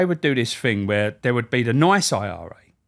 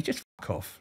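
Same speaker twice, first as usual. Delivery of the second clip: breathy, much softer dismissal; hushed fuck off; 3 semitones lower, 11 dB quieter than usual. Retold or imitated. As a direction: drop it to a curt murmur. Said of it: "Like that".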